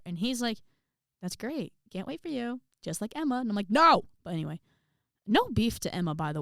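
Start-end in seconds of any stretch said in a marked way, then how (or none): 1.2-3.4 higher voice, a touch soft, imitating dad; lightly voiced pleased parent; mildly encouraging dad. Dad approves of his child choosing choir, encouraging. 3.7-4.0 loud, high mock outburst; protesting. Daughter compared to her sister by dad, protesting loudly.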